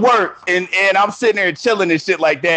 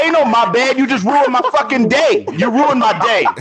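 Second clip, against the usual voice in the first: higher-pitched, indignant retort; retold mad comeback; 4 semitones higher than usual. Man telling off a wrong-number sender, retold indignant protest. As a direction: throw back the apology, worked up. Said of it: "I was so mad".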